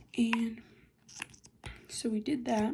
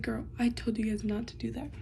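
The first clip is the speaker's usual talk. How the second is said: whisper; 9 dB quieter than usual. Real, not acted. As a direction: whisper so nobody nearby hears. Whispering the story.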